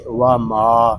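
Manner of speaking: "वा मा" with मा held long and clear of the nose; stretched, non-nasal. Shown as a demonstration. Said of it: "मीम को हम खींच कर पढ़ेंगे". ("वा मा" में मा खींचकर, नाक के बिना)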